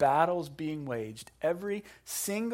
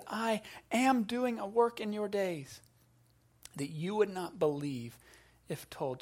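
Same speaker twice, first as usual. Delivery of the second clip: "am" given the weight, dropping softer to "if told"; stress on am; 5 semitones higher, 3 dB quieter than usual. Shown as a demonstration. Preacher stressing God's present tense to the church. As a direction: lean on "am", then let it fall away. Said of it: "He says".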